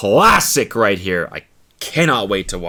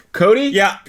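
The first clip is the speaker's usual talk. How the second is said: high voice calling from stall; 8 semitones higher, 4 dB louder than usual. Pretend. Acting man in bathroom stall.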